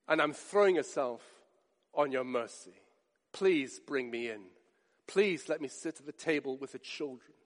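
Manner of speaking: soft, humble begging; hushed pleading. Retold or imitated. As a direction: beg quietly for mercy. Woman begging for mercy.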